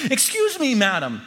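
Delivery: very high, cheery call to a passer-by; eager, grinning. A narrator's reading. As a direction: hail her politely through a big grin. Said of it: "I'm grinning from ear to ear".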